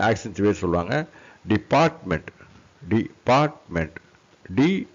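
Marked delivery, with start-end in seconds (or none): 1.5-4.0 de-PART-ment, middle syllable raised; stress on PART. Shown as a demonstration. Teacher models the accented syllable, stress on PART. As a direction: hit the PART in டிபார்ட்மெண்ட். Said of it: "பாட்டை வந்து நீங்க stress".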